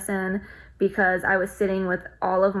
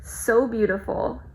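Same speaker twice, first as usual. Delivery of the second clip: emotional; 2 semitones higher, slower than usual. Real, not acted. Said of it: "I'm just getting emotional thinking about it".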